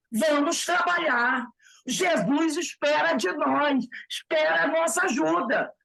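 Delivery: rally the brothers with energy; vibrant Paulo de Tarso. Retold or imitated. Medium voicing Paulo de Tarso to the brothers, vibrant and stirring. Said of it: "Ele vai falar assim, vibrante".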